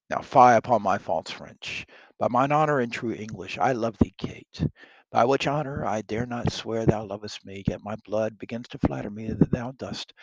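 a lightly voiced bluff king, pressing his suit; plain soldier-king teasing his way into a proposal; King Henry wooing. Henry courting the French princess, lightly voiced bold king. Henry woos Catherine, read aloud.

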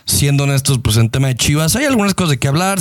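upbeat show opening greeting; podcast host intro. Acted. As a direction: welcome the listeners like a host.

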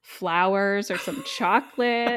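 high, slow, incredulous scolding; how dare you, slowly; indignant. Acted. Indignant heroine acted.

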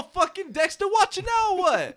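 loud, high teasing jab. Real, not acted. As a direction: rib your buddy hard. Teasing friend, much louder.

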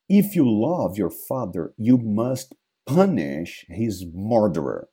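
dead father's ghost, slow and hollow. Acted. Ghost commanding Hamlet.

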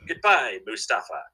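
lightly voiced robot farewell; robot goodbye. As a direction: imitate a talking animatronic. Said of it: "So we would".

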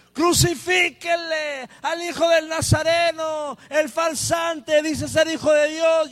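high, jeering mob cry; mocking crowd shout. Preacher voicing the crowd outside mocking Jesus, high shouted jeer. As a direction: hurl the accusation like the crowd. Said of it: "resonando una voz más fuerte".

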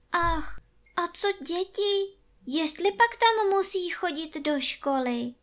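put-on high boyish voice with a mild sigh; a little boy worried about school; a touch of wistful child. A narrator's reading. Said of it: "vzdychl si Vojtíšek".

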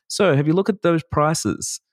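high, slow teasing question; mock flat sales question. Photographer mocking himself killing a client's excitement, high and slow. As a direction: lift it high and drag it out.

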